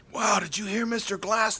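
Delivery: imitating thrilled radio hosts, high-pitched; excited. Radio hosts talking about the owner's remarks, excited. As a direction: marvel at the news. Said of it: "They were so excited".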